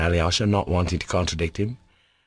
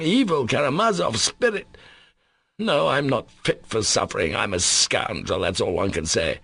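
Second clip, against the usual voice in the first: torn, confessing; anguished Mitya; 4 semitones higher than usual. Acted. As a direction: wrestle with himself aloud.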